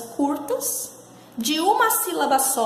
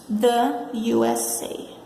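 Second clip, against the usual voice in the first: slow model phrase; 3 semitones lower, much slower than usual. Shown as a demonstration. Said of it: "os Estados Unidos".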